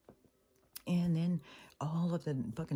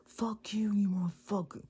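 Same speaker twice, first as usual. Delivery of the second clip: mock angry teen yell, pitched up; half-acted cursing outburst; retold outburst; 7 semitones higher, 3 dB louder than usual. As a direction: imitate a kid mouthing off. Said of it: "the kid goes off on him".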